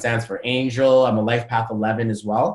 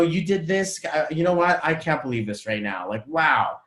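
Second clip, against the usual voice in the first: mild disbelief sinking to usual pitch; disbelieving; 3 semitones higher than usual. Shown as a demonstration. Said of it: "different intention".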